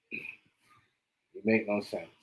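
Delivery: very slow, stretched You make no sense; drawn-out disbelief. Real, not acted. To the rapper, drawing out his scorn very slowly. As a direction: stretch every word out in disbelief. Repeats line, then draws it out.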